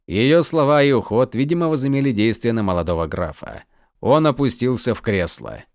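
usual speaking voice

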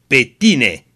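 a lightly voiced passionate young man's shout. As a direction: call out to her with longing. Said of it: "strigă el pătimaș".

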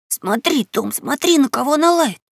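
panicked urging. Acted.

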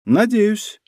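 high-pitched sceptical remark; wry hmph. A narrator's reading. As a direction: say it with a little audible smirk. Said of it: "хмыкнула Хирану".

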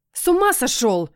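sharp startled squeal. Acted. Heroine squealing at the cat who scratched her. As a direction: yelp it out in alarm. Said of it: "взвизгнула я".

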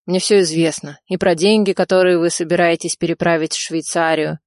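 ordinary delivery

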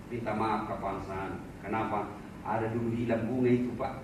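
sheepish apology. Acted. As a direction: play a guilty employee owning up. Employee confesses theft to boss. (karyawan mengaku mencuri kepada atasan dengan suara jauh lebih rendah dan takut)

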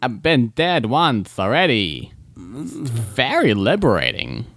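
terrible impression. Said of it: "my terrible, um, walking impression".

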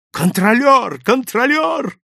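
high, loud repeated call; urgent cry, pitch climbing; full-lunged shout. A narrator's reading. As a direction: yell desperately for the conductor. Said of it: "закричал я, не жалея лёгких".

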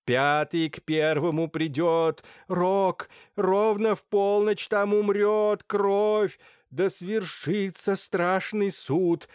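высоко, громко и медленно, нараспев; завывай стихи как кликуша; завывающая декламация. Acted. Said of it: "с завыванием декламируя странные строки". (кликуша нараспев завывает пророчество)

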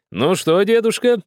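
put-on host cheerfully greeting the old miner, high and loud. A narrator's reading. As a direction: greet the old man gladly, voice jumping up. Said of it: "весело проговорил Карачунский".

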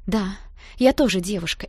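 ordinary delivery, nothing marked

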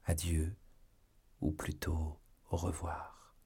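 tender love letter. A narrator's reading. An absent lover writes farewell to Aramis, tenderly. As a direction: read it gently, fading to a near-whisper on the goodbye.

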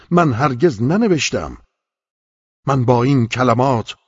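loud, high, desperate begging; terrified pleading. A narrator's reading. The frightened man begs the angel to release him, loud and high. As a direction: cry out to be let go.

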